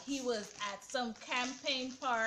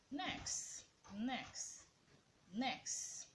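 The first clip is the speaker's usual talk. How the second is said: soft repeated brush-off, much quieter; mock dismissal; 10 dB quieter, much slower than usual. Real, not acted. Vlogger brushing off the Eva scene, softly. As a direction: wave it away under the breath.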